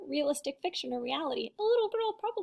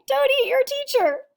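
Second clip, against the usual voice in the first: higher, louder "don't eat your teacher"; emphatic; 10 semitones higher, 9 dB louder than usual. Shown as a demonstration. Teacher repeating the moral to the class, higher and louder. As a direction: stress "don't" with a strong fall. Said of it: "That's right".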